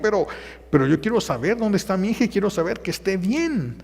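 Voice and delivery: put-on mother wanting to find her real baby; grieving mother. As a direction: ache for the lost daughter. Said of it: "ella va a decir".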